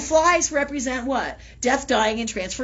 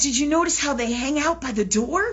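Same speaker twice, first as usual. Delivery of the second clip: quoting through laughter; 3 semitones higher than usual. Retold or imitated. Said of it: "she goes".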